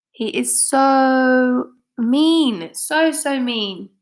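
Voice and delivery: slow, drawn-out tut-tut; disapproving aside. Real, not acted. Reader telling listeners how mean he is, slowly. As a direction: linger on mean with mock outrage. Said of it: "reader's aside on villain".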